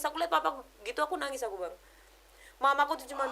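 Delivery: ordinary talk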